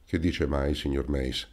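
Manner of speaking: a hint of grieving old man; gently dismayed, dropping away; sorrowful exclaim. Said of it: "esclamò dolente il Paleari".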